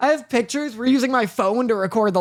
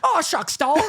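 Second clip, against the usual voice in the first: mock folksy shrug; 6 semitones higher than usual. Voicing burning Sarah shrugging.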